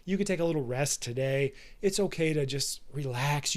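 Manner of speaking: a hint of a lazy tempter; bitch voice. Inner bitch voice lulling him to skip the gym, softly coaxing. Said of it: "Your bitch voice is that voice inside that says".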